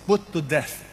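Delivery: "put to death" in firm, separated beats; emphatic PUT TO DEATH. Shown as a demonstration. Preacher stressing the verse's command, emphatic "put to death". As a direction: land each word of "put to death" firmly. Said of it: "That's the emphasis".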